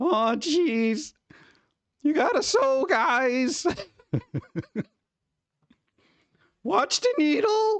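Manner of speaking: squeaky, very high cartoon character voice. Trying out voices, sliding into a Rick and Morty voice. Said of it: "It sounds more like a Rick and Morty voice".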